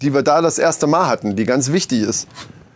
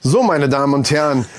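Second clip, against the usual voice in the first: pompous announcer. Acted. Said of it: "das hört sich so geschwollen an".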